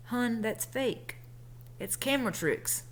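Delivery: put-on soft, slow counselor, gently letting a kid down; guidance counselor's voice. Counselor to a ten-year-old girl, soft slow soothing voice. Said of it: "that's how he talked too".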